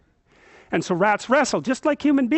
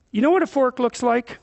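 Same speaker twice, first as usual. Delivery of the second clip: put-on gentle question to a toddler; 4 semitones higher than usual. Shown as a demonstration. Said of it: "You say".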